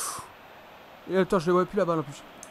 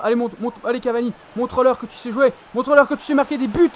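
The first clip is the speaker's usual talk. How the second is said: excited cheering; 2 semitones higher, 5 dB louder than usual. Real, not acted. Cheering Cavani on.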